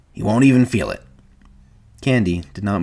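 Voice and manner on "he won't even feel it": apologetic reassurance, slightly raised. A narrator's reading. Carlson to Candy about shooting his dog, apologetic. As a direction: offer comfort by way of apology. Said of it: "he said apologetically to Candy".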